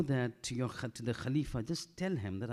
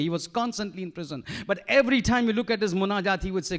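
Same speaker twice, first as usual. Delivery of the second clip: loud, raised preaching voice; impassioned preaching; 7 semitones higher, 8 dB louder than usual. Acted. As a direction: preach it out with fervour. Preaching at full force.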